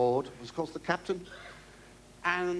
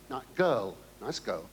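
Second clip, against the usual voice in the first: normal talking voice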